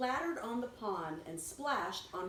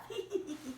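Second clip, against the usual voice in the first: demo giggle; 6 semitones higher than usual. Shown as a demonstration. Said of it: "giggles like a little laugh".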